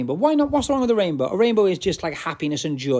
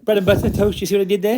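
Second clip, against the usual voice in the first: proud pun; 6 semitones higher, 6 dB louder, faster than usual. Real, not acted.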